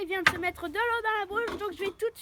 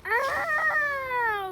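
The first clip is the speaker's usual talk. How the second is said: surprised ah; 7 semitones higher, 5 dB louder than usual. Real, not acted. Gets the pun suddenly.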